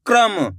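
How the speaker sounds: "क्रम" with the क and half र run quickly together; quick blended pronunciation. Shown as a demonstration. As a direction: say "क्रम" as one tight kr cluster, no vowel between. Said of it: "तेजी के साथ इसका उच्चारण निकलता है".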